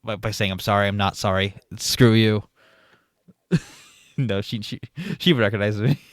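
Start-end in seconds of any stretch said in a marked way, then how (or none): 0.5-2.4 mock fake apology. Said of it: "I tell her I lie by saying".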